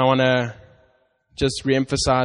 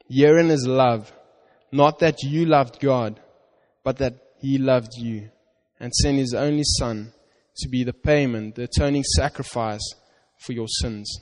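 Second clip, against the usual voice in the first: scripture reading. Acted. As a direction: read it as God's promise to you.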